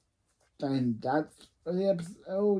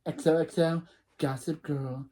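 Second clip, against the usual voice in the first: lightly voiced sly narrator; Gossip Girl voice. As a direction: sign off like a gossip columnist. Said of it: "use my Gossip Girl voice".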